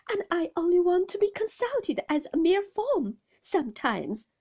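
high, loud, wounded protest; tearful pleading. A narrator's reading. Mother pleading with her husband through tears, high and upset. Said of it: "and with many tears".

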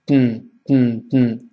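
嗯 as a short "dn" puffed through the nose; very light nasal release on 嗯; light nasal plosion. Shown as a demonstration. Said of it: "非常轻". (嗯 轻轻鼻腔爆破)

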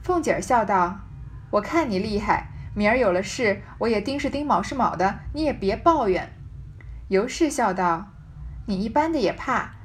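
measured reading of a classic novel, phrase by phrase; story narration. Acted. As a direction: read the old text aloud with deliberate pauses. Reads the novel's text aloud.

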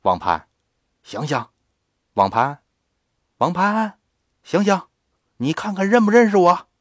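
抱着孩子一声声喊他醒来，音调抬高; 连喊带问，声音往上提. Acted. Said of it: "喊他". (李婶抱着孩子叫他醒，扬声呼喊)

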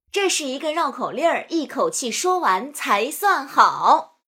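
lively rhythmic recitation; tongue twister drill. Shown as a demonstration. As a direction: count the dates with bouncing pitch. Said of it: "将数枣练习连做三遍".

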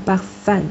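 parfum with "fum" said like Chinese 饭; final syllable like 饭. Shown as a demonstration. Teacher models the word after student's tries, ending like 饭. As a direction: end parfum on a nasal fan sound. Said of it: "有点像吃饭的饭".

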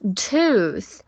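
"Tooth" with a long oo from the throat; corrected, held oo in "Tooth"; throaty OO. Shown as a demonstration. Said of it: "从嗓子里出来".

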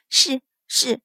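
meek, hurried yes; hasty assent. A narrator's reading. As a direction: give in quickly to the mistress. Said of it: "巧慧忙应".

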